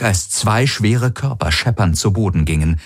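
plain reading voice

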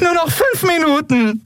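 high, tearful plea; begging. A narrator's reading. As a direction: beg desperately, voice pushed way up. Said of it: "bettelte sie den Kaiser an".

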